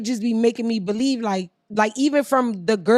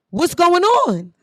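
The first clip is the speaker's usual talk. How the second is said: exasperated outcry; 7 semitones higher, 4 dB louder, slower than usual. Real, not acted.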